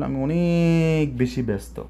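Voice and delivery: ordinary talk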